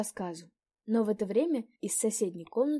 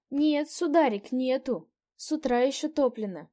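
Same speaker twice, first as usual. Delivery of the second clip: put-on old landlady; 5 semitones higher, 7 dB louder than usual. A narrator's reading.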